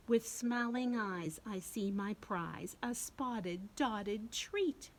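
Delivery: put-on reading rhyme to kids, a touch of a character; sing-song storybook rhyme; lightly voiced lamb.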